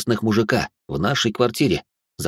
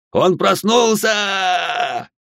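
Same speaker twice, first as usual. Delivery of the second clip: alarmed shout; 9 semitones higher, much slower than usual. A narrator's reading. Killer alarmed father woke.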